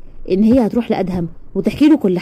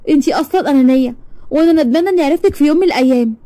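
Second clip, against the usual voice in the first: wounded reproach, pitched up; hurt, tearful; 4 semitones higher than usual. Acted. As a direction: accuse a friend who betrayed you, voice raised in pitch. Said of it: "تاج مشيت وهي بتعيط". (عتاب موجوع على وشك العياط)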